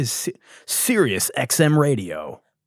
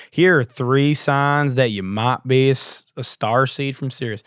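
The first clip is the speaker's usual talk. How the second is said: put-on Southern accent. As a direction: stretch the words out in a hammed-up Southern accent. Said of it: "having a fucking Southern accent".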